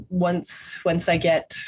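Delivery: normal talking voice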